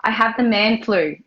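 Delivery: sick, croaky cold voice; man flu voice. Real, not acted. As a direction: talk through a heavy cold. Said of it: "my voice is a little funny".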